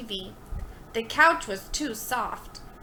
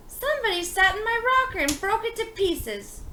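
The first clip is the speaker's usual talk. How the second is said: outraged; 8 semitones higher than usual. A narrator's reading. Donald outraged over broken chair.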